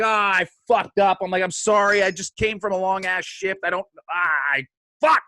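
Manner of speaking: scrambling to apologise; flustered panic. Retold or imitated. Bodyguard babbling excuses to Kim, flustered. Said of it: "this is inner monologue".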